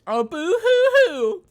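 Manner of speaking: high, slow fake boo-hoo; mock the crying, drawn out; mock sobbing. Mocking a crying game character.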